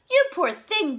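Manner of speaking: a lightly voiced big friendly giantess; gentle giantess sympathy; booming giantess. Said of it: "boomed the giantess".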